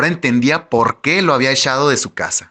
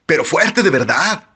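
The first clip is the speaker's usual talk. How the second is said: raised, bragging character voice; boastful seducer; 4 semitones higher than usual. A narrator's reading. Tyler insists on his boast to the narrator, bragging. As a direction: push the boast in a higher voice.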